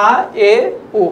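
"আ, এ, ও" as three separate short vowels; short vowels demo. Shown as a demonstration. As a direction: say "আ, এ, ও" briefly, pausing between. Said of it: "এর উচ্চারণটা".

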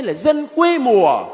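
slow, scornful "quê mùa"; a hint of looking down on country folk; mocking. Crowd belittling the apostles as rustic, mildly scornful.

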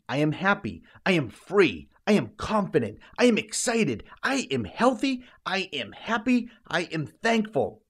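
rising eagerly in pitch, then easing down; building affirmations. Shown as a demonstration. Coach models saying happy, free, confident affirmations, building eagerly.

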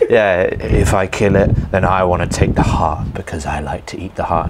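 lightly imitating a Norwegian accent. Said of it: "do a Norwegian accent impression".

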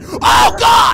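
sudden, very loud yell of fright; startled shout. Real, not acted. Player startled by the creature in the cage, startled shout. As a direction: yell out as if jumped.

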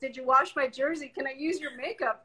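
lightly voiced whiny kids; bossy kids. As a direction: rattle off the kids' orders. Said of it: "my little bosses are always around".

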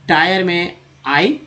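टायर said slowly with आई as clear "ai"; slow teacher model; slow demo. Shown as a demonstration. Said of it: "pronunciation demo".

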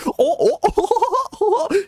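high, hammed-up string of oh's; mocking customer. Mocking a rude customer at the counter with high oh's. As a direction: squeal it like a clueless customer. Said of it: "is like".

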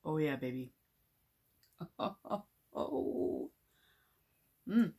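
chewing while talking; speaking between spoonfuls; mouth full of dessert. Real, not acted.

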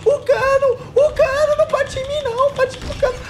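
high loud desperate yelling; frantic high pleading. Real, not acted. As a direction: beg in a panic. Pânico com o monstro. (súplica desesperada e aguda)

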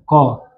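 word broken into separate syllables with long gaps; syllable-by-syllable demonstration. Shown as a demonstration. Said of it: "قضية أصلها هكذا". (نطق مقطّع ببطء)

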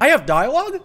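high, loud astonished question; surprised. Real, not acted. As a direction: squeak it out amazed. Surprised at getting a line.

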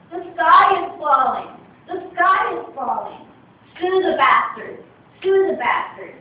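shouting slogans down the road; panicked shouting. Acted. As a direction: chant it like a panicking mob. Trio chanting again on road.

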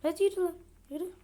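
loud impatient yell; shout. Real, not acted. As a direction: shove her along with your voice. Yelling at Granny to move.

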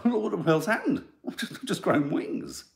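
giggling through a high bewildered ant voice; laughing mock panic. Host voicing flying ants, laughing at the bit. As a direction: play the startled ant while cracking up. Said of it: "they'd all be like".

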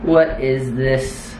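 slow, strange robot voice; alien robot voice. Pretend. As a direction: play a curious alien robot. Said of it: "She is an alien robot".

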